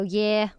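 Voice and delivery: "Yeah" said the Liverpool way, as "yeh-r"; Scouse vowel on "Yeah". Shown as a demonstration. Showing co-host how Liverpool says it, Scouse "Yeah". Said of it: "in Liverpool, you go".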